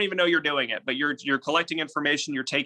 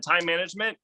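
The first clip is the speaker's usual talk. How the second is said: time management echoed with a rising tune; parroting upward inflection; 4 semitones higher than usual. Shown as a demonstration. Coach demonstrating parroting with an upward lift. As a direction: repeat it back, lifting at the end. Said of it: "And I said".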